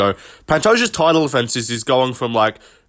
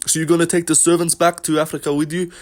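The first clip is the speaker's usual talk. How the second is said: pitched-up Dricus voice, jabbing at a rival; Dricus impression; 6 semitones higher than usual. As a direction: sneer the question in a put-on Dricus voice. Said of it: "based on Dricus".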